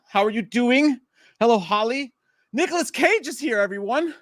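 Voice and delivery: high, hammed-up Nicolas Cage greeting; terrible Nicolas Cage impression. Streamer greeting the chat in a bad Nicolas Cage voice. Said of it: "That was that terrible Nicolas Cage impression".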